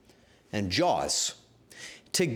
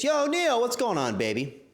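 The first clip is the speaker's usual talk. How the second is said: hype greeting; 11 semitones higher than usual. Real, not acted. Streamer hailing a raiding friend, hyped. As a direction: greet him like a buddy.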